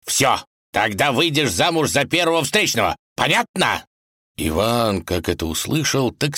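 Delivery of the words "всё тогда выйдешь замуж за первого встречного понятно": лёгкий намёк на гнев царя; царь грозит дочери, сердито; разъярённо. Acted. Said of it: "государь разъярился". (разгневанный царь)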